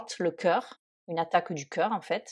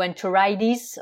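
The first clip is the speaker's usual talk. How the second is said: American "enteritis" with the T softened to a D; American accent. Shown as a demonstration. Teacher showing learners the American variant, American accent. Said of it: "si on le prononce avec l'accent américain".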